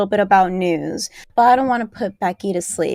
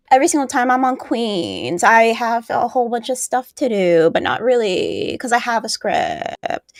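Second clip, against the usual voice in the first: mocking her talk. Co-host mocking how the other host talks, drawling imitation. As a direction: mimic her dragged-out endings. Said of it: "That's how you talk".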